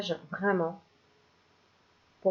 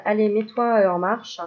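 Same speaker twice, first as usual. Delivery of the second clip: louder push to get moving; pep-talk command; 2 semitones higher, 5 dB louder than usual. Pretend. Cartomancer pushes the viewer's mind, louder pep talk. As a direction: urge your mind into action.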